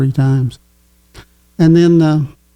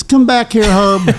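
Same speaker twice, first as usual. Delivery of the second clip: coach yelling; 6 semitones higher than usual. Retold or imitated. Coach yelling at a player who stole the ball. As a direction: shout him back like an angry coach. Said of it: "He starts yelling at me".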